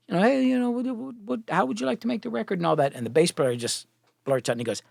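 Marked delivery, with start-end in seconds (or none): 0.1-2.6 imitating his own overeager high pitch to the band; a higher, mock-eager sales pitch. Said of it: "and I'm like".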